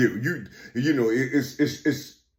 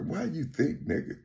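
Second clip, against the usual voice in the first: hushed, much softer imitation of a whisper; imitated whisper; 9 dB quieter than usual. Imitating a whisper suddenly heard, hushed. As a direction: drop the volume for a sudden murmured question. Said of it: "you hear a whisper".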